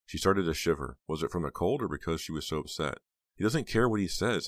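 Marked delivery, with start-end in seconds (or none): 3.4-4.5 cried. A narrator's reading. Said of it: "Heather cried".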